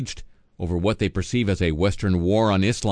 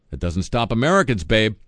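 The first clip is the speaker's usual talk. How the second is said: sassy aside; 3 semitones higher, 3 dB louder than usual. Pretend. Host's sarcastic aside.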